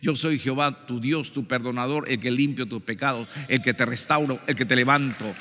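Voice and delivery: calm and steady, comforting the listener; gentle quoted divine assurance; reassuring. Retold or imitated. God's reassuring words, voiced softly.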